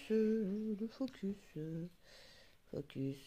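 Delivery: drawn-out, slow plea to the camera; slow pleading to the lens; slow coaxing. Real, not acted. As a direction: stretch it out slowly, coaxing the autofocus.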